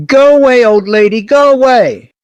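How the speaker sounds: high, loud doll voice; outrageous quacking doll. A narrator's reading. Doll drives off an old lady, quacking outrageously. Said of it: "the doll quacked outrageously".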